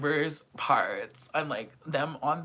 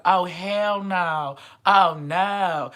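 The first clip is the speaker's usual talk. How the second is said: loud, slow oh hell no; mock outraged yell; 4 semitones higher, 9 dB louder, much slower than usual. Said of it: "I would be like".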